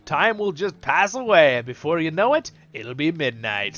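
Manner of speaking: high, loud, merry innkeeper; jolly innkeeper voice. Acted. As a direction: pour on the tavern cheer. Voices the innkeeper offering ale.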